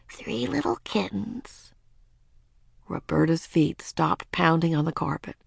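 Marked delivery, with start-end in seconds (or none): 0.1-1.7 soft, slow, higher nursery-rhyme lilt. A narrator's reading. Ramona soothing her sister with a rhyme, softly. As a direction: recite gently, close to a little one. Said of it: "and began softly".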